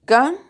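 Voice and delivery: CAN-CIÓN said in two separate beats, CAN held up high; split into syllables. Shown as a demonstration. Teacher showing students how to divide canción, syllable by syllable.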